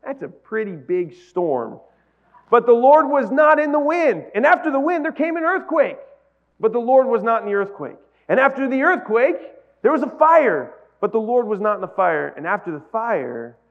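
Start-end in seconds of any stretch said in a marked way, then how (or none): 2.5-12.3 high, loud, building storytelling; dramatic scripture reading. Acted. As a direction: build the tension with each disaster.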